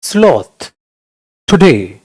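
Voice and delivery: unenergetic, low-key single words; lazy sound. Shown as a demonstration. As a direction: let each word sag, no spark. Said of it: "आप उसको energetic नहीं बोलोगे". (बिना जोश, सुस्त ढंग से)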